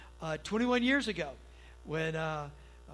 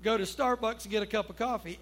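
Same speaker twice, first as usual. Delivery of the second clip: husband sweetly asking his wife for a coffee break; asking very kindly; 3 semitones higher than usual. Retold or imitated. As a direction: ask your wife nicely, drawing it out. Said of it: "I asked very kindly".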